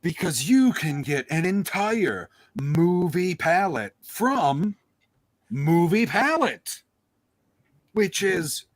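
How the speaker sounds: slow, showy sales pitch; sponsor ad read. Acted. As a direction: pitch the sponsor, landing on the brand.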